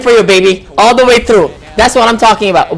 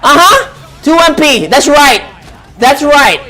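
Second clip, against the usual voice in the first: excited cheering; 7 semitones higher, slower than usual. Real, not acted. Streamer cheering his favored player's winning move, high and excited. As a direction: yell at the screen for him to keep pressing that button.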